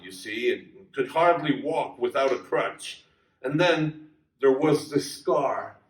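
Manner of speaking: a hint of a broken man answering gently; lightly voiced Tim, low and resigned. Tim's quiet reply, voiced lower.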